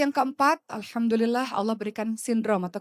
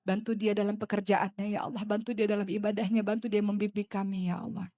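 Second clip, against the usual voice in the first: hushed supplication; prayer. Real, not acted. Leads a prayer.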